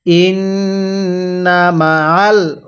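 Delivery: stretched syllables, measured Arabic reading; slow recitation. Shown as a demonstration. Teacher models the word slowly for learners to copy. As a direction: draw out ওয়া র ফা না evenly. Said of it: "আমার সাথে পড়ুন।".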